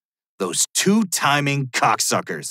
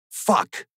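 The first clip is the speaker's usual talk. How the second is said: breathy whispered swear under the breath; whispered curse. Acted. Caught by the police, he whispers a curse.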